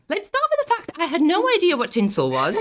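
laughing through the words. Real, not acted. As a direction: giggle while you tell it. Laughing while telling first day.

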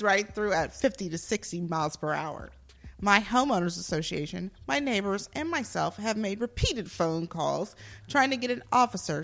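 dramatic review reading; actor's voice. Pretend. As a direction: ham up the angry complaint. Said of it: "I'm gonna be in my actor's voice".

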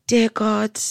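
re-enacted childhood prayer; mock prayer. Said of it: "was praying out loud".

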